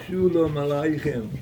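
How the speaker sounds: imitated thick Polish-Yiddish accent; heavy Polish accent. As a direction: say Shalom Aleichem with a Polish accent, rounded vowels. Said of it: "answers back in a heavy, thick Polish, uh, uh, accent".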